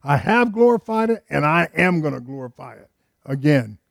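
a hint of God declaring from heaven. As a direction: proclaim it, leaning on "have" and "am". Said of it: "the voice from heaven saying this".

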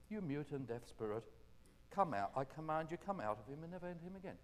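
gently spoken rebuke, without yelling; gentle command. Shown as a demonstration. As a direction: command the spirit calmly and gently. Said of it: "Jesus just spoke gently to people".

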